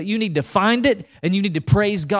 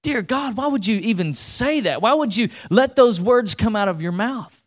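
higher, exasperated disbelief; appalled plea, pitched up; retold dismay; 5 semitones higher than usual. Preacher retelling his thought at grandmother's words, higher, appalled. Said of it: "And I thought".

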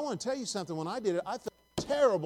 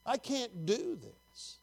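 softer, slow, high plea; crying out to God; 5 semitones higher, 5 dB quieter, much slower than usual. Acted. Preacher voicing a weary cry unto the Lord, hushed high plea. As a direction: repeat the helpless plea more quietly, drawn out. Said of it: "when you cry unto the Lord".

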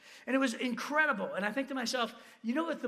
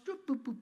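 little higher-pitched boops; imitated bouncing noises; 4 semitones higher than usual. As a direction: sound out each hop as a playful blip. Imitates hops down the wall.

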